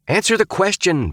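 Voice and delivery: loud barked order. A narrator's reading. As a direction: bark the command. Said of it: "barked Tom".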